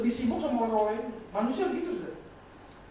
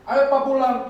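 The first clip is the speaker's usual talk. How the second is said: put-on child pleading; 4 semitones higher, 9 dB louder than usual. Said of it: "Telepon lagi".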